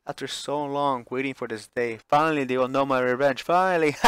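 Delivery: loud, high manic triumph; euphoric villain laugh. Acted. Lillian cackling over her long-awaited revenge. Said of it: "can't stop laughing with euphoria".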